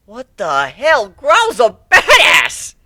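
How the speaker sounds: high, slow, stunned shout of awe; amazed outburst. Acted. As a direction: gasp it out in disbelief and admiration.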